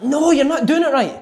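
lightly voiced Di Canio correcting a run; mock Di Canio telling off. Manager scolds player in training, lightly mocked. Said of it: "And he's like".

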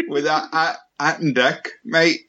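halting put-on Geordie; Geordie accent. Shown as a demonstration. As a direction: attempt a Geordie host, stumbling a little. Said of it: "Can you do a Geordie accent".

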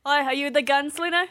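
attempted accent, vaguely Australian; not-very-good Australian-sounding accent; uncertain Australian-like accent. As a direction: have a shaky go at an Australian accent. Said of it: "Let's see if I can do an accent".

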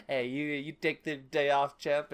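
fast-talking producer voice; lightly voiced pushy producer; slick showman. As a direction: play the oily movie boss. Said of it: "Victor's mouth and is like".

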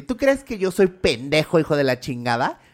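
put-on retelling a jealous blowup at the boyfriend, angry; angry confrontation.

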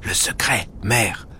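soft, hushed pleading. Acted. The visitor begs the cook for her secret, hushed and pleading. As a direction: beg her in a near-whisper. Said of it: "l'Agacan la supplie".

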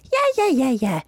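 mock girlfriend. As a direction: brush him off sweetly.

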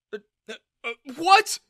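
sputtering then a loud high what; flustered, can't find words; stammering shock. Acted. Father stunned by his daughter, stammering.

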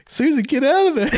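high shouted warning; calling out warning. Retold or imitated. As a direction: yell at the screen. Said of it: "I'm like".

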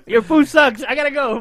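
mock-rude brush-off while laughing. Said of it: "like, very rude".

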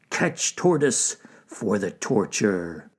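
slow menacing wolf order. Acted. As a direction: order the hunt, slowly. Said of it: "shouted Wolf".

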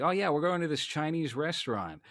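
lightly voiced swaggering husband; mock brash husband. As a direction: show off his careless date-night bravado. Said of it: "he's like".

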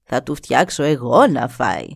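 χαμηλότερη, σοφή φωνή γριάς; καλωσόρισε τον ξένο σαν γιαγιά; γριά γυναίκα. Acted. Η γριά μιλά. (η γριά καλεί τον νεαρό στη σκηνή της, χαμηλή φωνή γριάς)

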